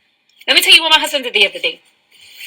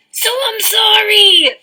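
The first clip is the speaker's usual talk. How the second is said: mock shouted sorry; 5 semitones higher than usual. Shouting sorry after laugh.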